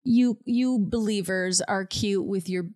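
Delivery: mildly haughty know-it-all; lightly mock a condescending expert. Talking down to believers, haughty. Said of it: "like, haughty sort of".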